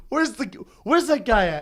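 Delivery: tag. Retold or imitated. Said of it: "he gets the manager".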